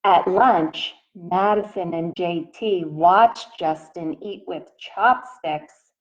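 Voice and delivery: gentle picture-book read-aloud voice; reading to children. A narrator's reading. Teacher reading a picture book to her class, in a gentle read-aloud voice. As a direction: read it out to the little ones, asking.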